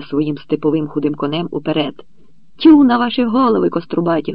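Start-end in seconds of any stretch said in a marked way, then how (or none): 2.6-4.3 higher, louder scolding shout; angry shout. A narrator's reading. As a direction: yell at the rioting crowd. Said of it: "гукнув". (гнівно гукає на натовп)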